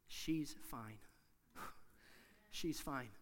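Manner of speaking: soft, low and measured; hushed good news. Retold or imitated. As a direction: let the news land quietly, with a pause between. Retelling doctor's good news, hushed.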